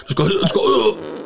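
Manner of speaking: long drawn-out rising sound effect; imitated fart release. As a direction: mime a slow release with the voice. Acts out letting fart go.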